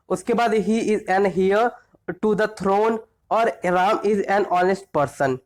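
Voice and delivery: slow, deliberate reading of each example sentence; teacher dictating examples at a slow pace. Shown as a demonstration. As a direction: read the examples out slowly, word by word, for the class. Reads example sentences aloud.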